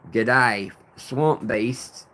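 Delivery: put-on botched Australian-style accent on "Good day"; terrible unknown accent. Greeting a viewer down under in a bad Australian-style accent. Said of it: "don't even know what accent that was".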